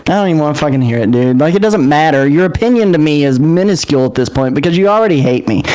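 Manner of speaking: defiant acted outburst before storming out; dramatic fit. Character tells the group off before leaving, dramatic fit. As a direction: argue back heatedly, pitch climbing. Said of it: "his most dramatic fit yet".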